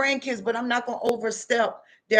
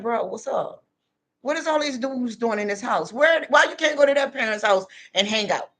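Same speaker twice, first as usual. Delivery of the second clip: scolding son. Retold or imitated. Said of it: "This is the stuff I used to say".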